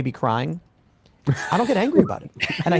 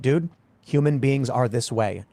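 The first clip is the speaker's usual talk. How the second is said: matter-of-fact retort; slower than usual. Retold or imitated. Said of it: "I'm simply gonna say to 'em".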